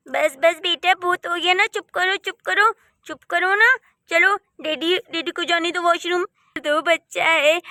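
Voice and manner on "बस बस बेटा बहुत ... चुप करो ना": put-on mother losing patience with crying kid; hushing. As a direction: shut it down, getting sharper.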